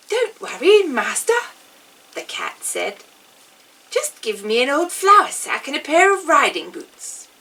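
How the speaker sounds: eager talking cat promising his master; clever cat. Acted.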